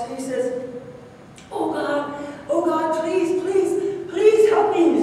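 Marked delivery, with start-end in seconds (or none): 1.5-5.0 pleading, building to a high loud cry for help; man hanging from a cliff root, begging in rising panic; desperate pleading. Acted. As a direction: beg God for rescue, rising into panic. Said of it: "He's really desperate".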